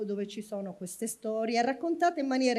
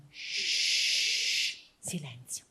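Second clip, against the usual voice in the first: shushing; 8 semitones lower, much slower than usual. Shown as a demonstration. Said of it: "chiedo a questi bimbi di fare".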